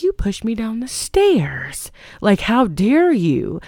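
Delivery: slow, drawn-out mock outrage; hammed-up indignation, stretched out; indignant accusation. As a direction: accuse him slowly, acting affronted. Retold accusation by the pushed wife.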